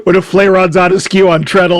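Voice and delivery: hammed-up Yorkshire millworker; comic North Country dialect line; North Country accent. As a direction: put on a broad Yorkshire accent. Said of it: "done by Yorkshiremen".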